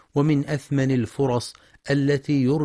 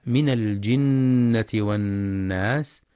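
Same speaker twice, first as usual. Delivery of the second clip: slow measured tajwid chant; Quran recitation; slower than usual. Shown as a demonstration. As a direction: recite the verse slowly.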